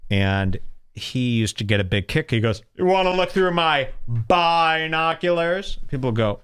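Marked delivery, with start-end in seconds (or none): 2.8-5.8 "binoculars" with the first syllable BI stretched and punched; mock-suggestive question, BI stressed in "binoculars". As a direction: lean hard on the "bi" in "binoculars". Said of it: "Why the emphasis on the bi?".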